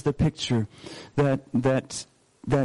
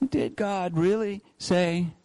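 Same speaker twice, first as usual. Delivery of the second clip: doubting tone; 4 semitones higher, slower than usual. Shown as a demonstration. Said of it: "What's the tone behind that question?".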